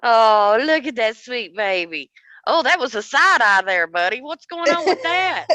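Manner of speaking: fond pet talk; sweet talk to cat. Real, not acted. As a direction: chat fondly to a pet. Talking to the cat.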